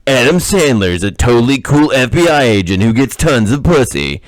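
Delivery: lightly mocking movie-trailer announcer; trailer guy voice. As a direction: hype it like a parody trailer voiceover. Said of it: "in the trailer guy voice".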